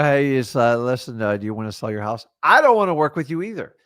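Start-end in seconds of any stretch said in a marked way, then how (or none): 0.0-2.3 hesitant, mumbling cold caller with no drive; lightly voiced timid seller trailing off, a bit faster; mock low-energy sales call. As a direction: fumble through the pitch like you don't care. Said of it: "you have to get fired up".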